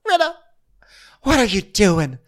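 high, loud mock what are you doing; hammed-up shrill question; mock high confrontation. Garcelle should have asked Rinna, high mock whine. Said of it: "why didn't you come to me and say".

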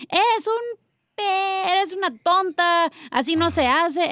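drawn-out mocking scold; mocking scolding mother. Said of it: "le dicen".

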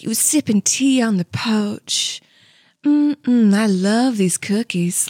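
genteel Southern lilt, like sipping tea on the porch; nice Southern accent. Shown as a demonstration. Lady enjoying cookies on the porch in nice Southern accent. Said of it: "that's a nice Southern accent".

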